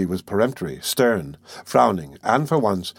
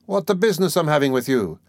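lilting, higher, amused exclamation; sly good humor; 6 semitones higher than usual. A narrator's reading. Examining lawyer brushing off the suspect, slyly good-humored. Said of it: "with a perfectly good-humored, sly".

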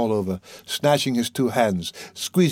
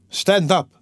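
high-pitched, impassioned order; urgent command; 8 semitones higher, 4 dB louder than usual. A narrator's reading. Sonia seizing him by the shoulder, urgent command. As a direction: order him up with sudden force.

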